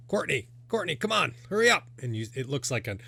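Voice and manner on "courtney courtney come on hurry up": high, raised call from behind the bar; impatient yell. Acted. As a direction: holler for a dawdling daughter. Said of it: "you hear somebody yell".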